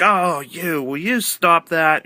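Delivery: imitating an embarrassed commentator scolding his partner; embarrassed protest. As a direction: play the embarrassed, annoyed host. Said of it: "acting totally, like, angered and embarrassed".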